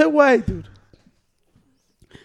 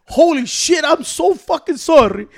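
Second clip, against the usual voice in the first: acted apology; 4 semitones higher, slower than usual. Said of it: "I was like this".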